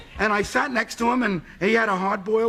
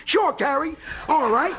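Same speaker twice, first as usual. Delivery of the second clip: eager; 3 semitones higher than usual. Retold or imitated. Eager reply on phone.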